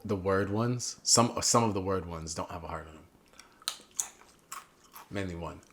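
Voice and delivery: chewing while talking; mouth full. Real, not acted. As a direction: talk through a mouthful of food. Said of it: "Sorry, I'm chewing".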